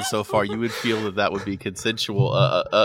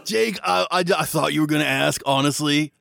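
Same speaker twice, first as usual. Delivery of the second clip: put-on high, flustered teen voice; Skylar, embarrassed; 5 semitones higher than usual. Skylar realises the invite wasn't hers, high and flustered. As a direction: cover the embarrassment brightly. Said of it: "a voice go".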